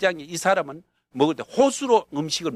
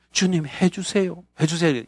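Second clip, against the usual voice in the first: put-on childlike prayer. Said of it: "유치원 기도".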